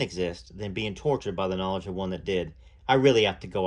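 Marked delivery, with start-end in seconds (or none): 2.9-3.6 insistent. Acted. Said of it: "I insisted".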